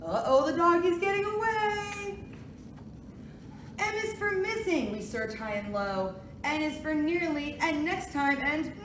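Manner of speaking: sing-song picture book reading; reading to a toddler. Acted. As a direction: read it gently to little kids. Reads alphabet book aloud.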